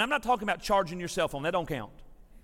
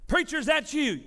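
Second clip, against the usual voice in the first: put-on young lady's voice; 6 semitones higher than usual. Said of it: "I heard this young lady's voice".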